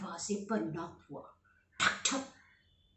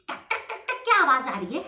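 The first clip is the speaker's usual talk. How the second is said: curious bear; 6 semitones higher, 8 dB louder, faster than usual. Acted. Bear hears popping.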